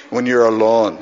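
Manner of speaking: imitated Scottish accent; Alistair. Preacher trying out a colleague's phrasing, Scottish accent. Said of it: "Can I say that like that?".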